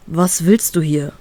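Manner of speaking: slow, held-back calm question; as calm as possible. Acted. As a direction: keep the annoyance out of it. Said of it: "frage ich möglichst ruhig". (möglichst ruhig, langsam gefragt)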